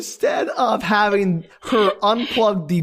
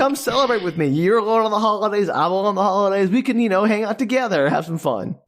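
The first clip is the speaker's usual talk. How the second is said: smug guy voice; 3 semitones higher than usual. Retold or imitated. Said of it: "And he's like".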